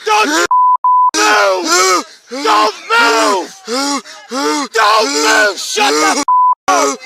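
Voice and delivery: commanding shout. Real, not acted. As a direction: freeze him with your voice. Officer yelling at suspect.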